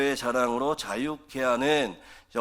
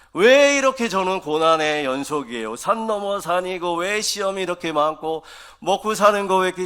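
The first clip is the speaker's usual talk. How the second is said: higher, louder complaining lament to God; honest lament; 5 semitones higher, 4 dB louder than usual. Retold or imitated. Pastor voicing a believer lamenting trials to God, complaining. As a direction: pour out every grievance in one breath. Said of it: "이렇게 얘기하셔도 돼요".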